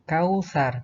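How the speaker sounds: "kausar" sounded out firmly, falling at the end; modelled word. Shown as a demonstration. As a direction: give a careful model of "kausar". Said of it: "Kemudian ini". ("kausar" dilafalkan tegas)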